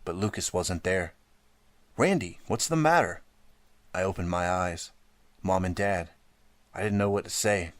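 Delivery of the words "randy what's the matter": high worried question; mother rushing in to her frightened son; alarmed mother. A narrator's reading. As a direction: ask it in alarm.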